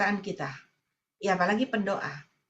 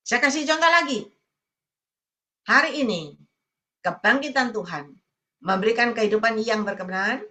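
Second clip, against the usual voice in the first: preaching proclamation. Acted. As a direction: proclaim the victorious life over the congregation. (khotbah berapi-api menyatakan berkat)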